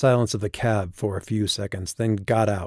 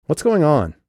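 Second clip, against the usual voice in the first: urgent; 8 semitones higher, 5 dB louder than usual. Acted. Tense question in car.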